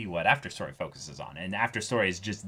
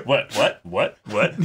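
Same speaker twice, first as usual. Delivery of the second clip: mock confusion; 5 dB louder than usual. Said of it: "laughing mock confusion".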